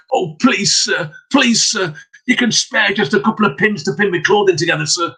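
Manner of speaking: put-on high pleading young girl; begging girl. Girl pleading with peddler, high begging voice. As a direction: beg him sweetly for a few pins. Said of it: "she begged of him".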